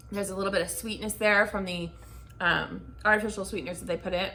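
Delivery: talking while chewing gum. Real, not acted. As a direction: speak around a wad of gum. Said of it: "So I'm gonna start by chewing this gum".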